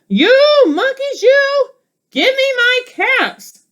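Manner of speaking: quite angry peddler. Acted. Storybook peddler stamping his foot, yelling up at monkeys. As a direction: stamp your foot and demand them back. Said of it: "Now he felt quite angry".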